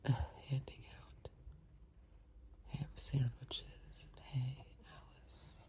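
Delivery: quiet murmured aside; soft aside. Real, not acted. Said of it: "aside to listener, much softer".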